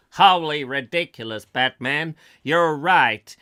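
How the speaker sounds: loud, hammy American exclamation; comic sidekick catchphrase. Pretend. Son exclaiming to Dad, mock superhero sidekick delivery. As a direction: declaim it like a cartoon hero's helper.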